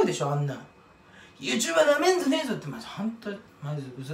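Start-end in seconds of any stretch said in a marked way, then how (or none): 1.4-2.5 tough-guy quote. Retold or imitated. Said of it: "とか言うじゃん".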